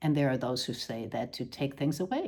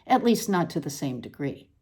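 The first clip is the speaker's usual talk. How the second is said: measured, deliberate reading voice with dry pauses; literary reading. Acted. Author reading her odd prose to an audience, deadpan reading voice. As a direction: read the prose out with deadpan precision.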